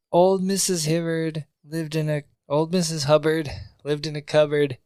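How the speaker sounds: lightly sing-song bar poem; playful amateur verse recital; mock poem recital. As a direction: recite it like a nursery rhyme, slowing at the end. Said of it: "a little poem".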